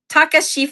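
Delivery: "Taka Shife" read literally, as spelled, in a high, unsure voice; literal reading of the name. Shown as a demonstration. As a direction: sound out "Taka Shife" letter by letter. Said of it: "I wanna say it literally".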